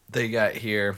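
talking through burps; words broken by burps; burping the words. Real, not acted. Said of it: "I'm talking through bur".

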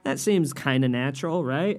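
hammed-up fake-friendly interviewer; Byron Allen voice. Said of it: "But he'd be like".

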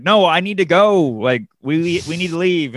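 pressing, mildly worked-up retelling; urgent insistence. Retold or imitated. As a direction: insist you need to go, acting it out. Retold urgent plea to leave.

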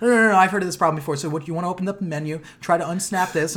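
put-on fast, eager tech-support kid; tech mode. Streamer imitating the kid giving tech support, fast and eager. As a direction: rattle it off like helpdesk. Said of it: "went into fucking, like, tech mode".

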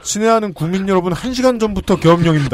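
a light mock presidential address; solemn state announcement, lightly imitated; ranting dictator speech. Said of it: "딱 그 톤이죠".

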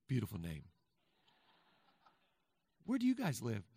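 ordinary delivery

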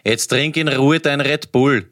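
slow, unbothered mother's reply; totally chilled. Retold or imitated. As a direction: retell it unfazed, taking your time. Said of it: "sie sagt urgechillt zu ihm". (urgechillt und langsam nachgemacht)

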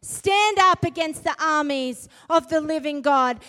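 slow, loud, indignant roar; defiant shout. Retold or imitated. David shouting down Goliath, slow and loud. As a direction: thunder it out at the giant. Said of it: "he's like".

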